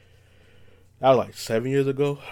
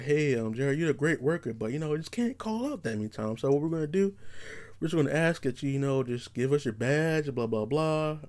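lightly voiced manager, slightly higher pitch; polite boss; 4 semitones higher, 4 dB quieter than usual. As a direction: soften the firing in a mock-courteous office voice. Voicing boss firing him politely.

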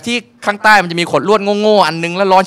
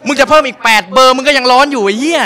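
loud, higher exasperated rant; comic fury; mock outrage; 6 semitones higher, 5 dB louder than usual. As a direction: yell at the masseuse. Ranting at the masseuse.

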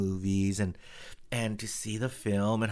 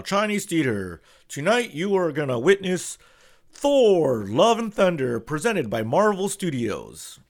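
higher and louder, grand showman build; booming announcer; 6 semitones higher, 6 dB louder than usual. Retold or imitated. Host hyping the premiere crowd, booming announcer. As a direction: announce it like a big event. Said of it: "the guy comes out and says".

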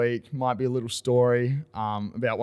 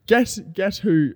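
teasing build-up; 6 semitones higher, 7 dB louder than usual. Real, not acted. Teasing his co-host about who did it, stretched out high and loud.

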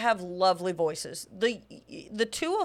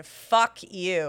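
insulting; 2 semitones lower than usual. Shown as a demonstration. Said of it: "nothing is more insulting than".

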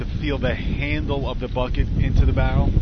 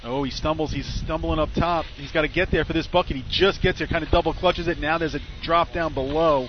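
rising, excited live race call; play-by-play caster; 3 semitones higher than usual. Acted. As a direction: call the run as it happens. Live call of a team's run.

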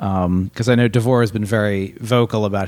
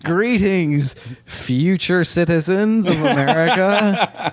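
slow, grand, laughing announcer voice; disembodied voice; 4 semitones higher, slower than usual. Pretend. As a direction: boom it out like a pompous video host. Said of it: "the disembodied voice you've never heard before".

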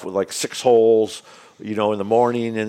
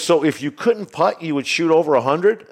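higher-pitched imitation of a puzzled questioner; retold incredulity; 6 semitones higher than usual. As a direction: quote him checking, in mild disbelief. Retold golfer's incredulous follow-up question.

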